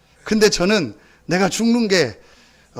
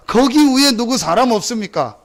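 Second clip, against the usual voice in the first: mock shout up the cliff; calling out for help; 6 semitones higher, 3 dB louder than usual. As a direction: call upward for rescue again. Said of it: "또 소리는 지르는 겁니다". (벼랑 위로 외치는 흉내)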